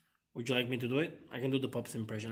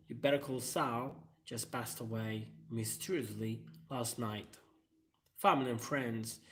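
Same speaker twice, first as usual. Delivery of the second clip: lightly voiced YouTuber announcement, mock solemn; a hint of a channel host breaking sad news; imitating Metatron. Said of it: "I can imagine him saying".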